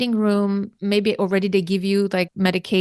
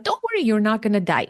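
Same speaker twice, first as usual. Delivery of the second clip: brisk, quick retold dismissal; matter-of-fact; faster than usual. Anesthesia doctor to a scared patient, matter-of-fact. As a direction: say it fast, without any empathy. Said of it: "matter of factly".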